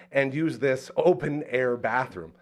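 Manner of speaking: usual speaking voice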